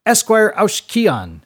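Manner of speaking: high, loud, stretched-out name; proud rector presenting a champion; triumphant announcement. A narrator's reading. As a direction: hail the prize pupil before the class. Rector hails his top pupil.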